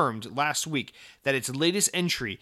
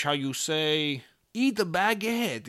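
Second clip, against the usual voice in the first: bad French accent; slower than usual. Podcaster mocking a Ubisoft exec, bad French accent. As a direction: play the clumsy French exec. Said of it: "that's a really bad French accent".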